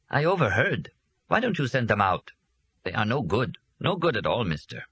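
lightly voiced servant; servant's voice. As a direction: sneer lightly at the guests.

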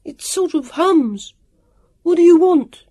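high, slow call from afar; high-pitched shout, rising in force; calling back. A narrator's reading. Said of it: "Sam called back".

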